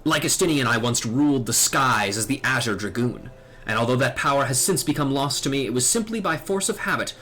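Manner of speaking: lightly acted solemn knightly elder; dragoon mentor. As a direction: explain ancient lore with measured gravity. Voices dragoon mentor's long speech.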